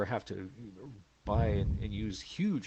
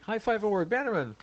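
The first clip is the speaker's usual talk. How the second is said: announcer voice; 11 semitones higher than usual. Pretend. Announcing mock award.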